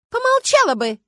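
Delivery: резкий высокий громкий окрик; сорвись на крик; срыв. Acted. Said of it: "сорвалась внучка Дракулы". (сорвалась на крик)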